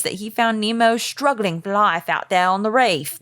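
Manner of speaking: attempted Australian accent; a weak try at an Australian accent. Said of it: "I can't do Australian accents".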